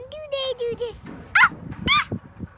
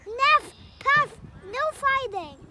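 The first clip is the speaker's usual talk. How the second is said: calling out; 2 semitones higher, 8 dB louder than usual. Real, not acted. Child calling to seagulls.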